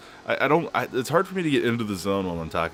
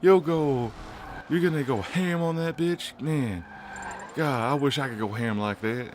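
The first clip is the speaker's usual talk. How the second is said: lightly hammed-up hype, pitched up; mock hyped buddy; 7 semitones higher than usual. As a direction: retell your own pumped-up cheer. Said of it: "and I was like".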